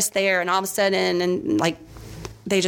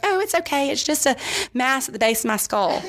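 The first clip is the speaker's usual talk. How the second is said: mock reassurance; 5 semitones higher than usual. Mocking her own cryptic post.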